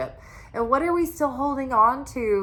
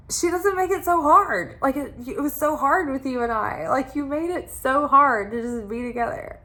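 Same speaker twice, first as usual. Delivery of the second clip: higher-pitched, pleading complaint as him; mock exasperated explanation; 4 semitones higher than usual. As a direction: act out his exasperation. Acts out his exasperated explanation.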